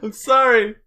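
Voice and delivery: laughing while apologising; stifled giggles. Real, not acted. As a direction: giggles barely held back. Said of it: "I'm trying not to laugh".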